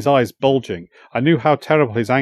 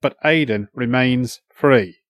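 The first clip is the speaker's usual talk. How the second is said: slow, through gritted teeth; slower than usual. Acted. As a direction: grit your teeth and say it slowly. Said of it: "I gritted my teeth".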